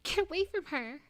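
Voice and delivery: high, loud anguished cry; a hammed-up grieving scream; sorrowful scream. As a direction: scream her name in grief. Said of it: "I screamed in sorrow".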